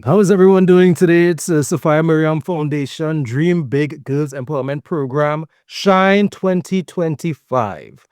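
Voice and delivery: big upbeat radio host welcome. Shown as a demonstration. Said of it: "I'm gonna use my radio voice".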